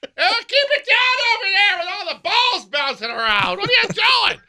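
put-on high, slow grumpy old neighbor; cranky neighbor. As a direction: shoo the noisy kids off as an old neighbor. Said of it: "I'm this close to being your neighbor".

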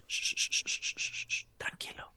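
hushed, secretive whisper. Retold or imitated. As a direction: soothe them like a scared child. Thierry hushing, whispering secret.

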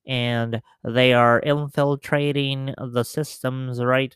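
nerdy voice. Acted. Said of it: "your high-pitched, nerdy voice".

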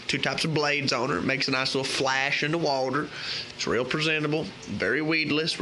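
put-on loose, drawling Southern country accent throughout; hammed-up Southern country accent giving fishing tips. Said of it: "I'm gonna keep the accent".

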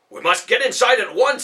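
high, loud alarm; urgent warning. Acted. Ben warns of the Roman rider, urgent alarm. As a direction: hurry them inside.

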